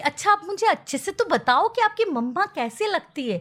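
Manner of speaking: put-on butterfly asking the baby monkey what mama looks like; lightly voiced butterfly. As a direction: ask sweetly like a butterfly. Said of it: "butterfly बोलती है".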